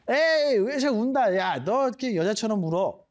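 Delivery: 높게 놀리듯이; 우는 친구 놀리는 아이처럼. Retold or imitated. (친구를 놀리는 아이 말투)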